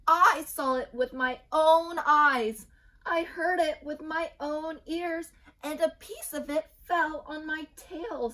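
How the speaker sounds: high, loud, slow insistence; frantic little chick. A narrator's reading. Chick convinces Cocky Locky, high and loud. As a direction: plead that you saw it yourself.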